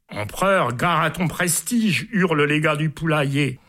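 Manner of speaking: lively reading of a comic poem aloud; amused poem recital. A narrator's reading. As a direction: read it like a storyteller savouring each line. Host reads a long comic poem.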